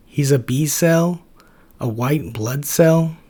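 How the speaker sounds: walk him through it slowly; exasperated Ted. Acted. Ted correcting Max.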